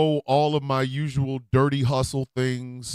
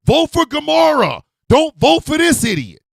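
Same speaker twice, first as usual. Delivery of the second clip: mock campaign cry; 11 semitones higher, 8 dB louder than usual. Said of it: "We still would have been like".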